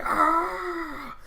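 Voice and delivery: very high drawn-out dying wail; video-game death cry. Retold or imitated. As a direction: mimic a game soldier going down. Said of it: "when a soldier dies".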